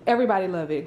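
breathless after scrubbing the carpet; panting between words; out of breath. Real, not acted. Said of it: "I'm out of breath from cleaning this carpet".

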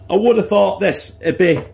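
losing voice, hoarse and strained; hoarse, voice giving out. Real, not acted. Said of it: "Sorry, I'm losing my voice a bit here".

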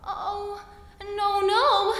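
high, loud little fly voice; buzzy housefly. Acted. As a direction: squeak it high and urgent. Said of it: "said the little fly".

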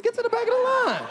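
very high, exasperated order; indignant yell. Acted. Diner to marchers following him into Chick-fil-A, indignant high yell. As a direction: send them away in a high outburst.

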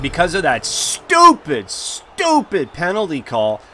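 loud, slow, disgusted; real fuming gamer. Real, not acted. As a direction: spit out stupid stupid. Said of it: "I'm fuming right now".

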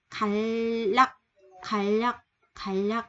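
갈락 with the second syllable read as lak, with an L; Korean word 갈락. Shown as a demonstration. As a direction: model 갈락 as gal-lak. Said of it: "Đây mình đọc là lắc nha".

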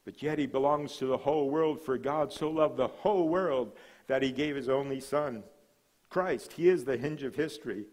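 proclaimed loudly, building each title; preaching. Acted. Pastor proclaiming Christ's titles to the congregation, full force preaching.

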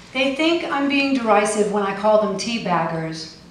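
wry, deadpan performed satire; poem reading. Acted. Poet reading her satirical Tea Party poem, deadpan. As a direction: read it with a dry satirical edge.

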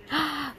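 high, playful gasp; excited gasp. Real, not acted. Owner winding up her dog for scratches, excited gasp.

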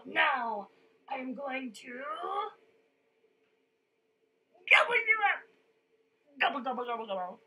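hungry troll threat, peaking in a shout; menacing troll. A narrator's reading. Troll threatening to eat the big goat, loudly menacing.

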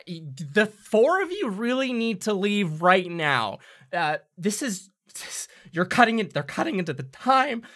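high, hurried goblin warning; anxious little official shooing them out; hobgoblin voice. Acted. Hobgoblin insists the party leave now.

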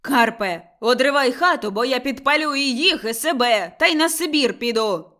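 loud, desperate furious yell; screaming threats at husband; angry shouting. A narrator's reading. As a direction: threaten at the top of her voice. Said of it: "кричала Мотря".

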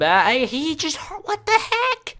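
high, slow laughing disbelief. Real, not acted. Gamer knocked off by a friend, laughing disbelief. Knocked off after a party invite.

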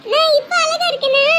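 high, giggly, pleased question; delighted. Acted. Child asking aunt if they look pretty now, delighted. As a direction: ask brightly, fresh from a giggle.

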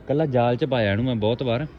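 hearty loud trucker banter. Real, not acted. Proudly showing the freed bird.

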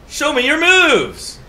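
high, drawn-out taunting call; battle cry. Pretend. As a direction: call out a playful, stretched challenge. Playful battle cry entering the game.

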